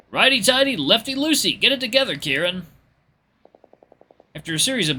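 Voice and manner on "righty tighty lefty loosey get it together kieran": high, loud exasperated scolding; exasperated Luke. Acted. Luke to Kieran over the lug wrench, exasperated. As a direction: chide him, pitch way up. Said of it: "Luke throws up his hands in exasperation".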